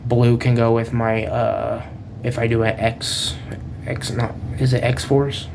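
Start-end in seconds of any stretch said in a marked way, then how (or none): 2.2-5.5 groggy, fumbling for words; muddled from a hangover; hungover. Real, not acted. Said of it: "I'm really, like, hungover right now".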